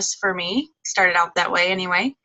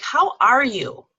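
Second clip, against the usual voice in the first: slower, sincere how are you; "How are you?" slow and heartfelt; asked with meaning; 5 semitones higher, 3 dB louder, slower than usual. Shown as a demonstration. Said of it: "ask it with meaning".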